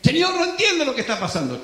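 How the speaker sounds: fretful pleading prayer; confused believer. Acted. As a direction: blurt out confusion to the Lord.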